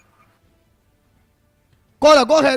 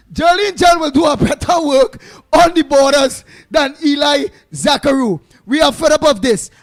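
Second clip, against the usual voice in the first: mock boss man caller. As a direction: play the boss man phoning in to complain, hammed up. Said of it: "boss man will call in".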